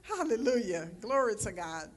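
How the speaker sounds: retold relief. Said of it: "I was like".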